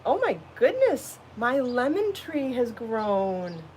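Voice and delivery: high, bright gasp of joy drawn out slowly; delighted surprise. Real, not acted. Gardener spotting her lemon tree has grown, delighted.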